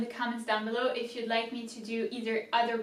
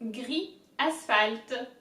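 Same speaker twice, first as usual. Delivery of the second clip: gris, asphalt drawn out very slowly; slower demo; much slower than usual. Shown as a demonstration. Teacher repeating the words even slower for viewers. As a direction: stretch gris, asphalt right out. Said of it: "So all together".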